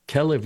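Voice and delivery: Kelev with short E and stress up front; Hebrew word for dog. Shown as a demonstration. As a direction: hit the first syllable of Kelev. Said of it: "to be distinguished from the word Kelev".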